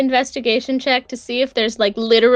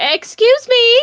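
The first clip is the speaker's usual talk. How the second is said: very high, raised, loud calling out; 12 semitones higher, 5 dB louder than usual. Playing a scene, calling to a couple far up the stairs, shouting. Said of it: "I'm just going to start shouting".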